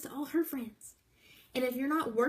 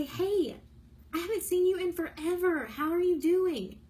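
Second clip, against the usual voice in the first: higher, brighter and a bit louder, cheery catch-up; friendly hello; 5 semitones higher, 3 dB louder than usual. Shown as a demonstration. Voice message to a high school friend, upbeat and friendly. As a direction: greet an old friend like you truly missed her. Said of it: "Just send them a message and say".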